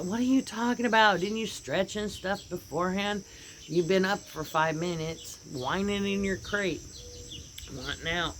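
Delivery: mock exasperation at a dawdling dog; exasperated scolding. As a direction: scold her like a fed-up owner. Owner scolding dog in story.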